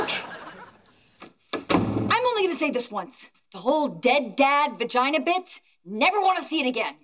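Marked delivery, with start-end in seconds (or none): 2.1-6.9 quick, higher-pitched telling-off; stern scolding. Acted. Daughter telling off her mother after the fight, stern scolding. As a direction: lay down the law, fast and exasperated.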